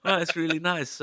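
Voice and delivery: lightly put-on Scandinavian accent; a hint of a fake Scandinavian lilt; bad Scandinavian accent. Fan greeting a guitarist in a mock Scandinavian accent. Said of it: "really bastardized Scandinavian accent".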